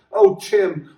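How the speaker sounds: a mild cry of Tim's name; the wife crying out to her lost lover. Acted. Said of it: "Deirdre cried out".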